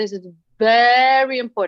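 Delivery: loud, with very drawn out for emphasis. Showing listeners different ways of speaking, with prolonged important words. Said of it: "I can prolong some words that I think are very important".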